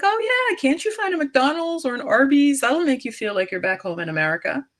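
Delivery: hammed-up imitation of a naive chat woman; mocking quote. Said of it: "So she's like".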